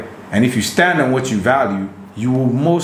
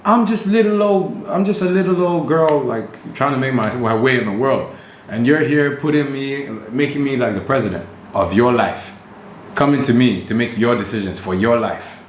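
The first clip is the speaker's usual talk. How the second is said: put-on high girly voice, baffled and annoyed; girl's voice; 4 semitones higher than usual. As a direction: play a woman asking what's wrong with you. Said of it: "they look at you like".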